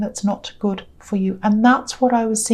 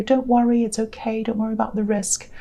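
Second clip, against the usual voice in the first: reassuring; 4 dB quieter than usual. Retold or imitated. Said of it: "I felt as if I had to say".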